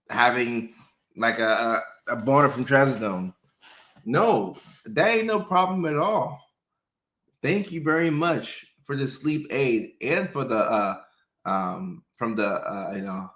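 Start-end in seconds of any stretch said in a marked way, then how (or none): 4.0-9.9 higher, eager mock patient voice; playfully overjoyed patient reassuring the doctor; gleeful patient. Patient voice, high pitch.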